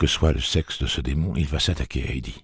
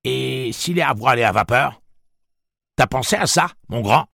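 higher, louder mocking Southern twang; Southern plantation accent; 10 semitones higher, 6 dB louder than usual. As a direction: tease him in a sassy Southern accent. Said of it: "accents chiqués caractéristiques de Detta Walker".

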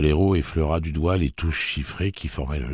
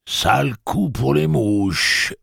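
slow, higher, careless quip; indifference; 10 semitones higher, 6 dB louder, much slower than usual. Acted. Blaine answers Jake: slow indifferent quip. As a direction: toss it off coldly. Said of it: "répondit Blaine avec indifférence".

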